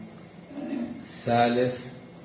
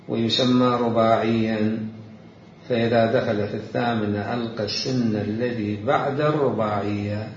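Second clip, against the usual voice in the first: slow, deliberate classical Arabic reading; formal reading aloud; 5 dB louder, slower than usual. Real, not acted. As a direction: read each definition out with weight. Reads a book definition. (قراءة متأنية لنص بالفصحى)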